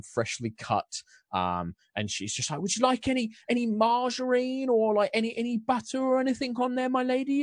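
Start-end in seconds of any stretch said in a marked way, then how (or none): 2.6-7.4 put-on high, polite English accent; English baker woman. Baker woman offers butter to the lady, English accent. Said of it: "I'm gonna lose all my accents".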